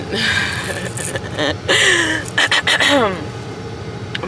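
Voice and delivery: numb mouth, slight lisp; numb from the dentist. Real, not acted. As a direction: talk through a numbed mouth. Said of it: "my mouth is numb".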